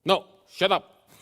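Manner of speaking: slow, loud, high "shut up"; a hammed-up angry retort; mock dismissive snap. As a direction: brush them off like a bully. Preacher acting out dismissive retort.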